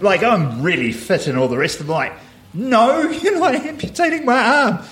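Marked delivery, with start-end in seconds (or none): 2.5-4.8 high, slowed, laughing refusal; laughing at his younger self's panic; retold protest. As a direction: squeak out a mock-outraged no.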